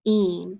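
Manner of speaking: "een" as the ending of green alone; "een" starting straight on long e; word without blend. Shown as a demonstration. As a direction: say "een" as its own chunk. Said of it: "without the grr is just".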